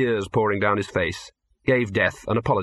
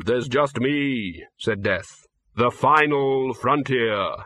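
Death, slow and grave; much slower than usual. Acted. Death voiced.

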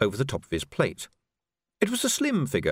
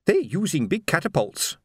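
higher, urgent report; woman on barricade; 5 semitones higher than usual. A narrator's reading. Lookout at a gap reports to Vimes, urgent. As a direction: call it out over the battle.

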